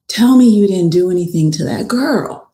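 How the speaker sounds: retold confrontation. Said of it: "he's just so real. He's like".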